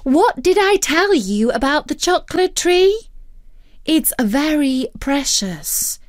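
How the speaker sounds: a patient but cross guardian; stern lecture. Acted. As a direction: Future Dog lecturing. Future Dog lecturing.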